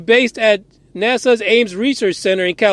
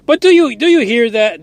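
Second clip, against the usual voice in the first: exasperated outburst; 4 dB louder than usual. Real, not acted. Exasperated rant at NASA.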